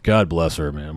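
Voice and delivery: ordinary talk, nothing marked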